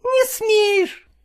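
put-on a small boy daring him; defiant boy. Boy defying his stepfather, high and defiant.

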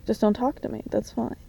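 usual speaking voice

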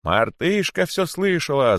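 high, drawn-out excited call; crowd's cry. A narrator's reading. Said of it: "закричали кролики". (протяжный крик толпы)

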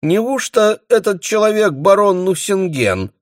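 high, mock-doubtful soubrette voice; pert maid's question. A narrator's reading. Europe asking the bailiff with mock doubt. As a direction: play the cheeky maid feigning doubt. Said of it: "спросила Европа".

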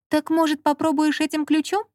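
lightly voiced young woman; Lola's voice. A narrator's reading. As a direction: suggest it helpfully. Lola suggests.

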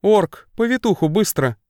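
high urgent call; a read-out shout for the midwife. A narrator's reading. The sister calls the orc for a midwife, shouting. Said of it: "Ещё громче закричала глазастая".

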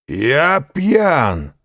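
high, loud protest; a drunk denying he is drunk; indignant drunken cry. A narrator's reading. Caderousse protests loudly to Danglars, high and tipsy. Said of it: "вскричал Кадрус".

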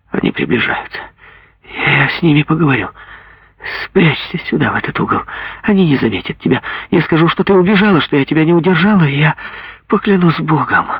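mother rushes to hide daughter; urgent mother. Acted. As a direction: hurry to hide the child. Mother plans to deceive soldiers.

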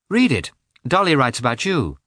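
lightly pleased, high lively start; a touch of happy eagerness; with a smile. A narrator's reading. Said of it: "began with a smile".

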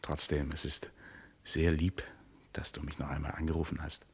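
whispered softly into the phone; whispering thanks to his lover; tender whisper. Acted. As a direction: murmur it intimately. Tender phone call late at night.

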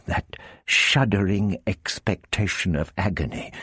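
ordinary delivery

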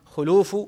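خلوف with a short "u" after the خ, not "a"; damma on the kha. Shown as a demonstration. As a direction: say خلوف with "khu" at the start, khuluuf. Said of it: "لكن الأكثر على ضمها".

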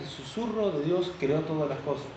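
soft, hushed emphasis on God's whisper; voz suave. Real, not acted. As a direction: drop the volume, keep it voiced. Softening while describing God's whisper. (voz baja, como en secreto)

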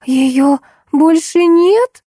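high, slow, disbelieving question; startled exclamation. A narrator's reading. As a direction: gasp it out as if shocked. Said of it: "воскликнула Алиса".

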